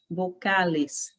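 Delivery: "vocales" slow, b sound, open a; slow Spanish vocales. Shown as a demonstration. Teacher repeating vocales slowly for students. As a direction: model "vocales" slowly for the class. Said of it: "em espanhol nós chamamos de vocales".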